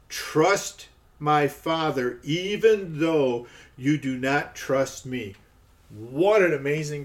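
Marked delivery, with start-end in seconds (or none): 0.1-5.4 slow, weighty reading of Jesus' words; slow emphatic reading. Shown as a demonstration. Preacher reading the verse to his listeners, slow and weighty. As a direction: let each word land slowly. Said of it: "He says right here, he says".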